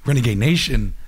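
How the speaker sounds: loud, hyped-up radio host; excited announcement. Acted. Host to listeners about a surprise guest, excited.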